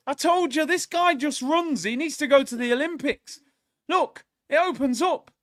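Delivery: loud, high, urgent shouts at the telly; screaming for him to shoot; excited yelling. Real, not acted. Shouting at the match live.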